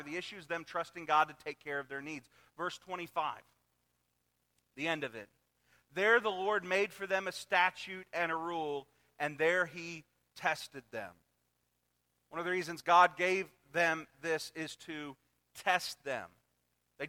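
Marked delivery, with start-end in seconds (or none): 5.9-11.1 scripture reading. Acted.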